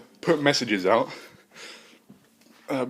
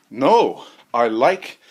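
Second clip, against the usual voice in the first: robot voice; 9 dB louder, much slower than usual. Acted. AI answers, loud.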